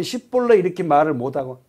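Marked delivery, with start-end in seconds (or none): 0.0-0.6 "십벌레" said high, as the Ephraimites would say it; the tribesman failing the password; Ephraimite mispronunciation. Retold or imitated. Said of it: "에브라임 사람은". (에브라임 사람 발음으로 "십벌레")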